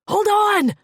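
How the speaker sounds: high, very loud desperate yell. A narrator's reading. Maddock yelling again as Fleck slips down. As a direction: yell it even harder the second time. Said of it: "he yelled again".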